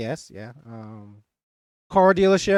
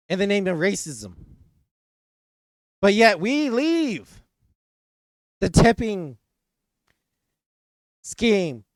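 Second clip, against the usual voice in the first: mock political speech. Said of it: "That has been my political speech".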